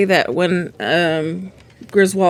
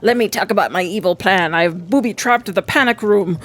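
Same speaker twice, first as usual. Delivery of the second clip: mad scientist. Retold or imitated. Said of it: "typical villain style".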